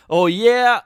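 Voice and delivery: loud, high put-on monster retort; defiant land shark. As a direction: fire back as a cocky cartoon creature. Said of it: "land shark's like".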